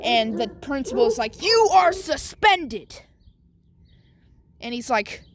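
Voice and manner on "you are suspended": slow, loud, high verdict; stern announcement. Acted. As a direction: hand down the punishment hard. Principal punishes Bakugo.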